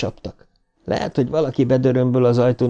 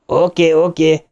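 higher, placating porter voice; calming night porter; 6 semitones higher, 3 dB louder than usual. A narrator's reading. Night porter calming a frantic guest, placating. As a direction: soothe a jumpy caller. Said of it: "felelte a portás".

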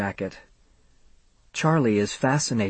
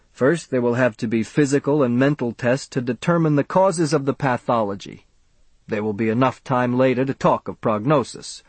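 self-important doctor; 2 semitones higher than usual. Acted. Doctor rebukes the father.

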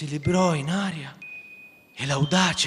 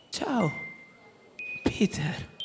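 choked voice; 4 semitones higher, 7 dB quieter, much slower than usual. Acted. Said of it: "con voce soffocata".

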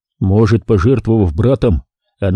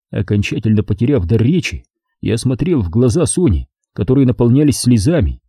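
usual speaking voice

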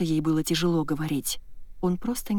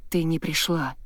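usual speaking voice

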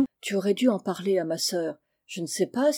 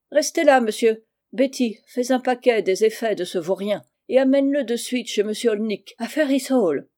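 sharp, raised commanding tone; imperious orders; 2 semitones higher than usual. Acted. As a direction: order the servant about. Aunt orders boy and servant. (ton autoritaire, impérieux)

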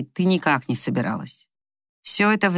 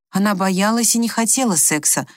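usual speaking voice

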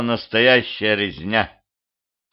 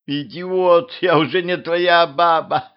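high, indignant outburst; angry retort; 8 semitones higher, slower than usual. A narrator's reading. Woman recoils from the ex who struck her, angry. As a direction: throw it back in a raised pitch. Ruler quarrels with violent ex.

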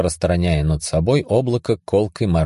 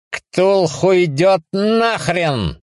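angry retort; 11 semitones higher, much slower than usual. Acted. Yelling over the chant.

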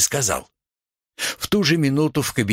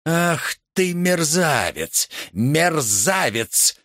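slow, separated words, each one spaced; 7 semitones higher, much slower than usual. A narrator's reading. The youth scolds Dyrkin slowly, word by word. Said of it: "раздельно сказал юноша".

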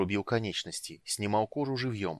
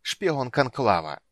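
slow, loud sneering hiss; mocking hiss; 4 semitones higher, 6 dB louder, much slower than usual. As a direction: spit the word out with contempt. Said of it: "прошипел с насмешкой".

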